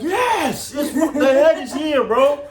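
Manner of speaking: high, loud, laughing cry; frantic yes. Retold or imitated. Husband telling the doctor on the phone the head is out, high laughing shout.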